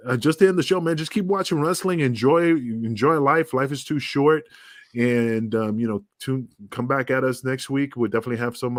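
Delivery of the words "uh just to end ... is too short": upbeat. Real, not acted. Upbeat sign-off to fans.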